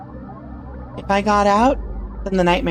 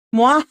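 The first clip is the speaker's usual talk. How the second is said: mock evil cackle; 5 semitones higher, 3 dB louder than usual. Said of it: "I'm supposed to be evil right now".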